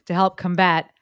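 "combat" stressed on BAT; stress on second syllable. Shown as a demonstration. Host resuming the bio, "combat" stressed on second syllable. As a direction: say "combat" as cum-BAT, reduced first vowel. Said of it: "emphasis on the different syllable there".

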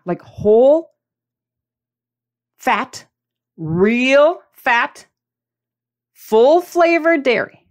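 slow, drawn-out emphasis on full flavored; said real dramatically. Shown as a demonstration. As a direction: stretch every word to make the point. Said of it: "I said it real dramatically".

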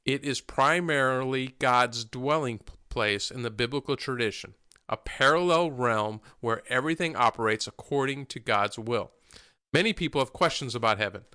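measured read-out, phrase by phrase; reading aloud. Real, not acted. Host reads the opening statement on heaven to listeners, reading aloud.

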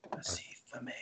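muffled, muted mumble; Kenny from South Park. Pretend. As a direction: talk as if through a hood. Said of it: "now you sound like Kenny from South Park".

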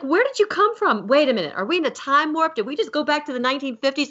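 high, incredulous Southern mom. Retold or imitated. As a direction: scold your son with a Southern twang. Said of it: "I'm gonna go Southern on you here".

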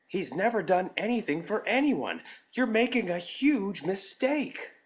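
loud high desperate plea; desperate pleading. A narrator's reading. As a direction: plead at the top of your voice. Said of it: "pleading desperately".

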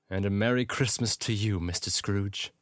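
ordinary talk

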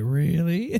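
playfully imitating an incredulous "Really?". Teasing a cohost by imitating his incredulous reply. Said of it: "I say that incredulously".

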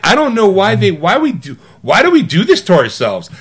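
high-pitched imitation of an upset moviegoer; mock upset protest. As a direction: plead it high, mildly hammed-up. Imitating partner upset during film.

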